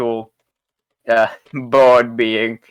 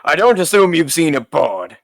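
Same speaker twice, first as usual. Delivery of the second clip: shopkeeper voice; 5 semitones higher than usual. Acted.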